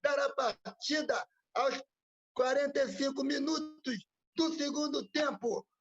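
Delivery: high, loud train station announcer; over the intercom. Pretend. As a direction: call out like a platform loudspeaker. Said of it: "Esse é um trecho do trem do Zé Cordeiro".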